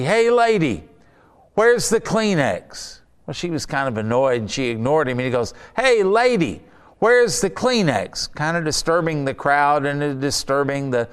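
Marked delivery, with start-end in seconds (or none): 0.0-3.0 high, drawn-out call over the crowd; man shouting over the crowd at the fortune teller, playful mock call; mock heckler. 5.8-8.3 man shouting over the crowd at the fortune teller, playful mock call; mock heckler.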